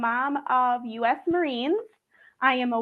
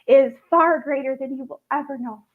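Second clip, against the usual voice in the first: on the verge of tears; 4 dB louder than usual. Real, not acted. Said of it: "I'm gonna cry".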